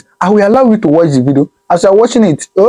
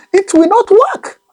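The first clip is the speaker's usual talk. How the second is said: high mock answer; slower than usual. Real, not acted. Mocking rhetorical answer.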